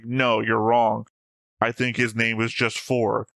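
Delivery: slow contrarian correction; deliberately slow know-it-all reply; mock argumentative. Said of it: "Just like".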